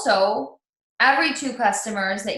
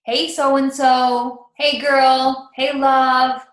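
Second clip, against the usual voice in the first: 1 friendly message greetings; 4 semitones higher, 7 dB louder, much slower than usual. Shown as a demonstration. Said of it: "However you address people".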